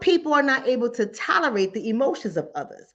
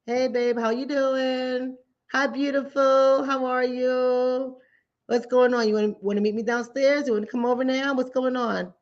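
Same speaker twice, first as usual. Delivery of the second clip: soothing caller voice. Retold or imitated. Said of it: "And I just call back".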